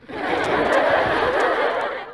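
breathy unhinged villain chuckle; creepy laugh. Acted. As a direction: laugh low and menacing at the captive.

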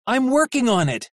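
high, strained call; shouting after them. Acted. Vic yelling after the fleeing robots, high and strained. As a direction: yell back while struggling. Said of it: "Vic shouted after them".

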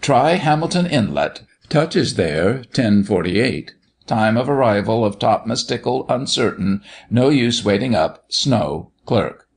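measured reading of a telegram; reading aloud. A narrator's reading. Doctor reading the reply to the children, announcing it. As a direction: read out a terse message, item by item. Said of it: "Then he read aloud".

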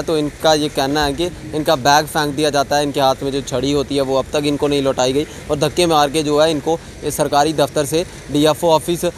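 steady field report; news report. Acted. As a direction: present the case to the viewers. Reporter's closing piece to camera.

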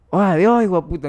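loud call down the street; mock shouted hello; yelled greeting. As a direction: shout it across the road at a friend. Friend yells greeting down street.

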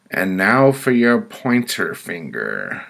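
loud, high-pitched sentencing; committee woman. Acted. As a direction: announce the next penalty as the judging woman. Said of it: "she said".

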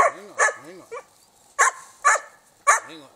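loud, high call to the dogs; firm loud call to the dogs. Real, not acted. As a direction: call them to wait. Calling to excited dogs.

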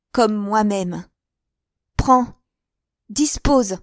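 lightly voiced passionate woman. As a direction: offer him the riches with a hint of triumph. Sarah's speech to Daniel.

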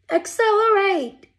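high, loud urgent call; Hubby urging the ship on, high urgent cry. Acted. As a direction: shout the order. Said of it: "cried Hubby".

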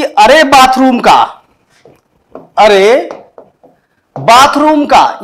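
drawn-out, half-hearted scolding; mock anger. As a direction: act mildly cross, stretching each phrase. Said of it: "मैंने गुस्से में कहा". (बनावटी गुस्से में, शब्द खींचकर)

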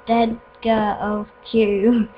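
lightly voiced game villain; slow, solemn villain commands. Voices map villain giving orders.

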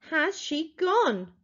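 anxious shouted question. Acted. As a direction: ask slowly, dreading the answer. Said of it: "I shouted again".

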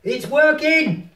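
high, loud, drawn-out delight; excited exclamation. Real, not acted. Player seeing the VR gear work, excited. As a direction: burst out with delight, stretching it out.

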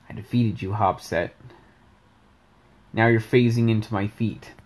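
understated, lightly voiced fighter; Rice. Shown as a demonstration. Character addressing a beaten opponent, lightly monotone. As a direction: give it a slight touch of monotone. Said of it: "Rice sounds like this, pretty much".

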